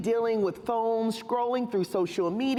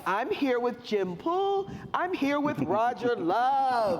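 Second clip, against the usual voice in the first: excited rising tune. Shown as a demonstration. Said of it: "Now she's excited to be here".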